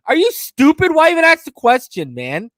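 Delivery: loud, high exasperated rant; ranting at the reporters, loud and exasperated; exasperated outburst. Real, not acted. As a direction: blast it like you can't believe it.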